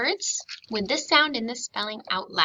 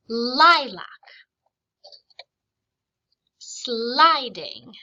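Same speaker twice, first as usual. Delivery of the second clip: Lilac and Sliding pulled apart into separate, distinct syllables; syllables spelled out; 5 dB louder, much slower than usual. Shown as a demonstration. Teacher models the syllables of each reading word. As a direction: say each syllable on its own so it can be heard. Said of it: "I'm purposely saying them so you can hear the syllables".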